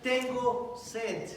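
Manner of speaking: very slow, stretched "Tengo sed"; slow drawn-out plea. Acted. Christ on the cross begging for water, drawn out slowly. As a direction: drag each word out in thirst. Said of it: "exclama y dice".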